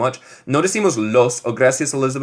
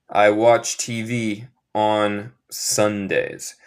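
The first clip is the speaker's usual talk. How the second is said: slow plain repeat; 3 semitones lower, much slower than usual. Shown as a demonstration. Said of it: "Se dice on".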